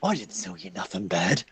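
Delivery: high-pitched, offended shopkeeper; indignant shopkeeper. Acted. Shopkeeper defending his father's store to a customer, indignant.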